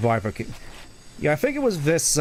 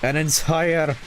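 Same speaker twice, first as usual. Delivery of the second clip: put-on Scottish-accented sidekick, higher than the narrator; Tails with a Scottish accent; 5 semitones higher than usual. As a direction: boast lightly in a Scottish accent. I don't remember you being Scottish.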